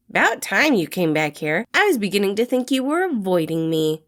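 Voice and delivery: lightly voiced teasing guy; a hint of playful needling; teasing young man. Remus confronts Janice.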